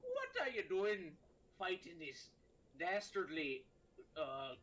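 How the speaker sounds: slow, grand pirate god; drawn-out pirate boom. Acted. Pirate god scolds the captain.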